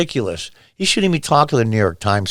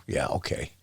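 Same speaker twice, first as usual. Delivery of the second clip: whispered, low dismissive yeah okay; murmured eye-roll aside; sarcastic whisper; 11 semitones lower, 14 dB quieter than usual. Real, not acted. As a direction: brush it off under your breath.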